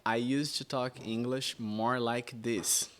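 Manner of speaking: English with a light Brazilian accent. Shown as a demonstration. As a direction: speak English like a Brazilian would. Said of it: "quando eu ia falar inglês".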